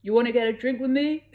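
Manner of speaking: a confident suitor asking her out; Fiero's voice. A narrator's reading. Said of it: "he asked".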